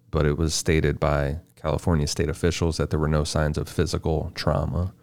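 even, measured case read; scripted true-crime narration. A narrator's reading. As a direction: read the case facts out steadily.

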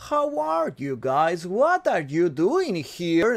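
drawn-out, half-Russian mystery-man accent; slow, mysterious accent. Shown as a demonstration. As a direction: stretch every word mysteriously in a Borat-like accent. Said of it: "así como medio misterioso, como lento".

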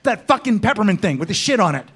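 demanding the peppermint drink with a swear; gruff swearing order. Retold or imitated. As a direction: bark the order like a tough guy. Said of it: "say it with a swear word in it".

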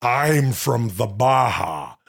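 lightly voiced Ventura lecturing a parrot; a hint of Ventura bragging; Jesse Ventura. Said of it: "say some of the things that I say".

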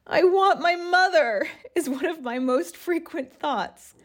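put-on reading an old diary entry with feeling; a touch dramatic reading of her own old journal; journal read aloud.

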